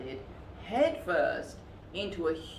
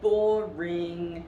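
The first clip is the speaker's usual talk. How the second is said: fuming; 5 dB louder than usual. A narrator's reading. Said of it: "fumed the littlest one".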